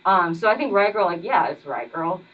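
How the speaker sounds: muffled through a mask; talking behind a face mask. Real, not acted. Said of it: "I'm wearing a mask right now".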